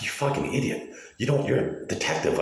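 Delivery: high-pitched, incredulous telling-off; exasperated retort. Retold or imitated. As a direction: retell berating someone in disbelief. Retells berating a clueless detective.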